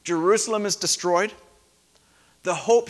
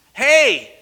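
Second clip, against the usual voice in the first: sharp loud higher "Hey!"; a loud "Hey!" to wake the nodding congregation; sudden shout; 6 semitones higher, 9 dB louder than usual. Shown as a demonstration. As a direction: startle the room awake. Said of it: "when I did that".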